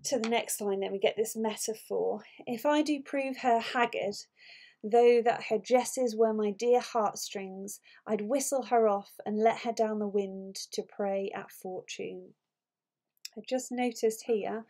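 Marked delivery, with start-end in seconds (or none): 2.5-12.3 measured, lightly performed Shakespeare verse; dramatic verse reading. Acted. Teacher re-reading Othello's haggard metaphor for students, lightly dramatic verse reading. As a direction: read the metaphor out as deliberate verse. Re-reads the next lines.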